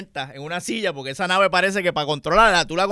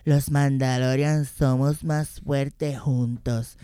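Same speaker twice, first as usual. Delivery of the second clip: mock Disney hero; 3 semitones lower, much slower than usual. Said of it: "lo más Disney que se le pudo haber ocurrido".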